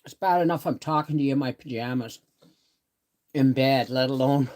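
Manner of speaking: talking with a mouthful; mouth full. Real, not acted. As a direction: speak around a bite of food. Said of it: "talking with my mouth full".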